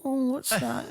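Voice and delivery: high, sing-song mock pity; mocking taunt. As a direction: taunt a helpless victim. Taunting imagined victim.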